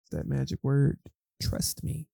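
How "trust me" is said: soft whispered promise. Retold or imitated. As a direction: breathe it like a secret. God's voice, that magic word.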